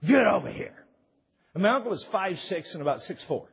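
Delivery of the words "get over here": loud, high yell of a name; imitating a furious dad yelling; uncle's yell. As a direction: bellow it across the house. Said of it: "he'd say".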